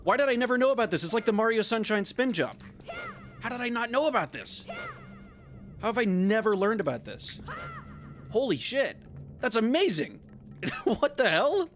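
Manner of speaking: high-pitched, real astonishment; stunned and excited, breaking into laughs; amazed disbelief. Real, not acted. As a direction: gush in disbelief at a discovery. Learns an unknown trick, stunned.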